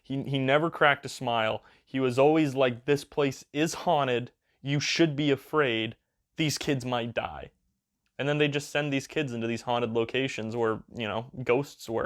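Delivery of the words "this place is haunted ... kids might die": dead serious host. Retold or imitated. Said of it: "played it so completely straight and serious".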